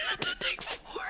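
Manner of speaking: very high squeaked words; squeaky laughing. Real, not acted.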